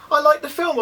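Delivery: "like" hit high and loud; stress on like. Acted. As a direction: punch the word "like", high and loud. Insists to his future self.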